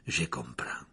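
soft, thoughtful murmur; pensive. A narrator's reading. Lupin considers Harry's answer, softly pensive. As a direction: say it quietly, lost in thought. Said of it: "dit Lupin, l'air pensif".

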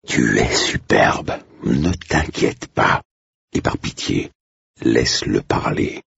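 slow, hushed whisper of comfort; calm her down in a whisper; hushed and slow, half-whispered. Acted. Blake whispers reassurance.

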